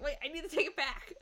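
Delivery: giggling through the words; laughing. Retold or imitated. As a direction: laugh while saying it. Quoting herself while giggling.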